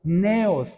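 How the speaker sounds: Neos pronounced NE-os; stress on first syllable. Shown as a demonstration. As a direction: put the accent on the E in Neos. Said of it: "con acento en la E".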